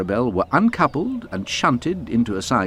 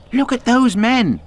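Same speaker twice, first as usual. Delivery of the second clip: louder, slow call to be heard; 6 dB louder than usual. A narrator's reading. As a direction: call out to the workmen. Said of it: "called Thomas".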